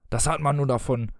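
mildly bitter grumble. Acted. Husband feels unappreciated by his family, mildly bitter. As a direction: complain with a touch of bitterness. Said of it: "sagte er bitter".

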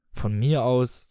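mildly reckless defiance; daring. Acted. Husband brushes off his wife's warning, mildly daring. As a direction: toss it off with a touch of bravado. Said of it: "sagte er verwegen".

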